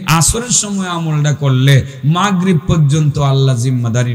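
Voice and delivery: rhythmic preacher's list, building in force; emphatic preaching. Real, not acted. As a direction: drive each repeated promise home to the congregation.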